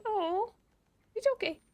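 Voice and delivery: put-on baby talk to the cat; cooing to cat. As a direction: retell the soothing coo. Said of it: "And I was just like".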